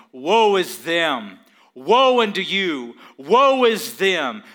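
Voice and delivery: loud, slow woe declarations; prophet's loud pronouncement. Retold or imitated. Pastor voicing Isaiah condemning the nation, loud and slow. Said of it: "the prophet is saying".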